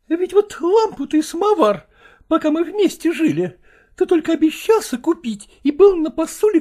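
high, nagging wife's voice, reproaching him; reproachful wife. Acted. Wife reproaching her husband over his new things, high and nagging.

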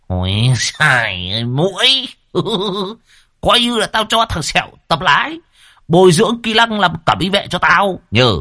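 high, laughing through the words; cackling laugh. A narrator's reading. Old man laughing off the crash, high cackling voice. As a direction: chuckle it off gleefully. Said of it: "lại cười khanh khách".

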